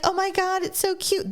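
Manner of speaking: mock cooing woman. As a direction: coo over the cub like a silly fan. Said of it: "And she's like".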